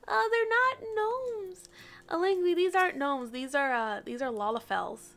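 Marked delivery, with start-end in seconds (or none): 0.1-3.3 loud mock dismay; playful protest. Real, not acted. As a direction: whine it in exaggerated protest, easing down as you go. Mock protest about the gnome label.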